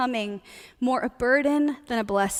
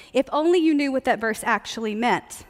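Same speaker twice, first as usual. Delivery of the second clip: usual speaking voice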